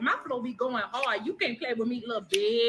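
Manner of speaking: put-on New Orleans accent. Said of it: "you know that accent killer".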